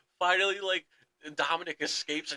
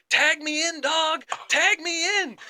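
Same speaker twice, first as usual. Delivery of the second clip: yelling to be tagged in, pitched high; loud, high mock shout from the ring apron; 12 semitones higher, 8 dB louder, slower than usual. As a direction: belt it out like a wrestler begging for the tag. R-Truth shouting for the tag.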